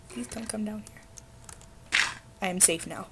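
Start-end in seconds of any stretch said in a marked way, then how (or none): 0.1-2.0 slow, drawn-out, hushed plea in a changed voice; mock scared plea. Gamer begs the skeleton not to come, mock scared. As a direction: stretch it out like a frightened whimper.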